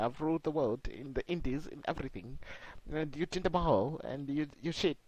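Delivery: halting, badly faked Scottish boasting; attempted Scottish accent. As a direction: improvise a Scottish wrestler's promo, stumbling. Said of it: "I'm trying to do the Scottish accent".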